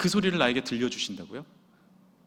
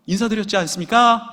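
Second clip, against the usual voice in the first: acted sergeant's protest; 5 semitones higher, 7 dB louder than usual. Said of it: "이렇게 말하고 병장들 볼 때".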